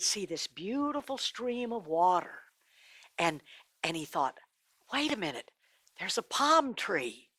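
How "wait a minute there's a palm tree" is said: thinking aloud as something comes into view; dawning realization. Acted. Rich man slowly notices the tree.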